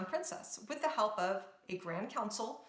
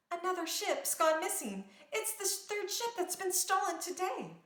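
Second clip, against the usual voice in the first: urgent news; 9 semitones higher than usual. A narrator's reading. Girl reports stolen ships.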